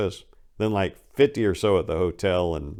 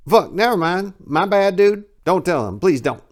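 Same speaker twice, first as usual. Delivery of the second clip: higher, louder mock begging; hammed-up backpedal in fear; panicked pleading; 10 semitones higher, 6 dB louder than usual. Pimp begging the clerk not to tell Big Mo, mock panic.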